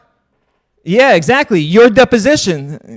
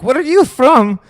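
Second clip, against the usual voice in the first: mocking the guest; 6 semitones higher than usual. Host mimics the guest mocking his accent, sneering and high. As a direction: parrot him back to make him sound dumb. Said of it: "He's like".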